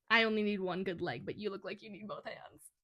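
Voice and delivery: light British accent, imitating a show quote; understated British-accented character line. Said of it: "afterwards I'll imitate the ones that are from the show".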